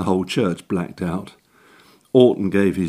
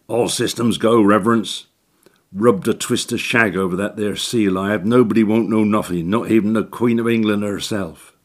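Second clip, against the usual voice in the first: cockney handyman; 2 semitones higher, 3 dB louder than usual. Acted. Orton boasting.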